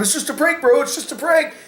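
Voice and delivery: high, whining mock plea of a beaten-up prankster; whiny mock prankster. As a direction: prankster begging after getting beaten up, high mock whine. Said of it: "you're going".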